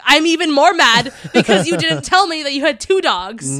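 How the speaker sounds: hammed-up indignation with a laugh; mock outrage, laughing. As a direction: play at being furious through laughter. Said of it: "I was like".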